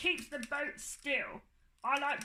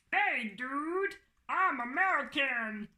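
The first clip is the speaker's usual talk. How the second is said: American dude. Pretend. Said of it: "Let me try again".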